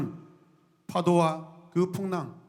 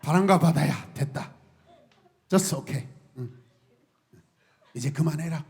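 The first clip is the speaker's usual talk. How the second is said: gentle; 3 semitones lower than usual. Acted. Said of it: "마음속으로 쓰담쓰담".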